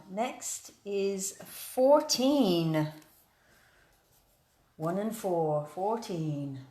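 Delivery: slow, drawn-out number calling; bingo caller. Acted. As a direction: announce each number like at bingo night. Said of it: "proper bingo calling".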